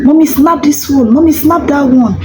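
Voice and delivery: light imitation of a child pleading with mommy; child urging parent to snap photo; eager child voice. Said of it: "The child will even encourage you".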